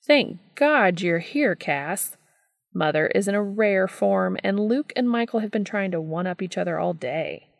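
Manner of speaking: a hint of a flamboyant older brother, relieved and fed up; lightly voiced Gabriel, exasperated.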